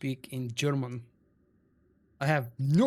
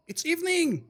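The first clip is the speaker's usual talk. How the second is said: emphatic; 14 semitones higher than usual. Real, not acted. Insisting it's evening not afternoon.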